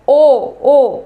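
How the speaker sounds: "ओ, ओ" held open, each separate; open vowel demo. Shown as a demonstration. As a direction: sound out "ओ" with nothing restricting it. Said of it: "पूरा, कोई restriction नहीं". ("ओ" पूरा मुंह खोलकर, बिना रुकावट)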